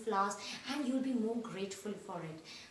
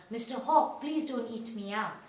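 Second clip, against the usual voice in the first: retold mouse plea; 3 dB louder than usual. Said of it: "the mouse had addressed Raoul".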